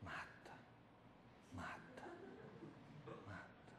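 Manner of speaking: bare whisper, each word fading; whispered plea. Retold or imitated. Boy facing the gun whispers for death, barely audible. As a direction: breathe the words out with eyes shut. Praying eyes closed before the gun.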